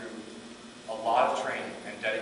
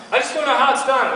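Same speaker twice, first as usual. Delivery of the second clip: confused student; 11 semitones higher, 12 dB louder than usual. Retold or imitated.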